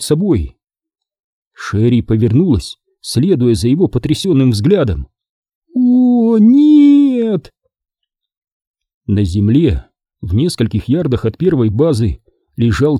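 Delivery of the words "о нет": high, loud cry of horror; horrified. Acted. Sherry sees Chicken lying still, horrified cry. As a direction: gasp out in shock.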